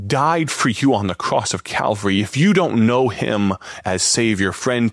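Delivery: ordinary delivery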